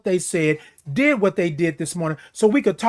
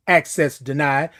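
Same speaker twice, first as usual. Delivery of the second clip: system voice; 6 semitones lower than usual. Pretend. Machine refusing the code.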